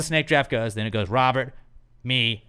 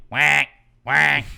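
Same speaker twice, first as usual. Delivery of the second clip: duck quack imitation; 6 dB louder than usual. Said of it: "duck quack".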